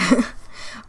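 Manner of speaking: quiet laugh at own slip; soft breathy laugh. Real, not acted. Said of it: "That's not a word".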